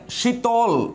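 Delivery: শীতল said slowly, halting on the final ল; slow demo. Shown as a demonstration. Teacher showing শীতল ends on a consonant. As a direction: drag শীতল and stop on the ল. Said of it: "খেয়াল করে দেখেন".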